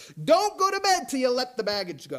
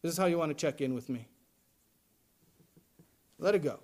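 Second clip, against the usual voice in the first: gentle God voice; 5 semitones lower than usual. Retold or imitated. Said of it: "And God says to you".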